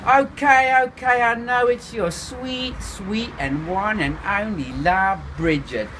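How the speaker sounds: high, slow South African drawl; South African sing-song, teasing; South African accent. A narrator's reading. Voodoo teases the narrator in a South African accent. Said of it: "giving me his South African intonation".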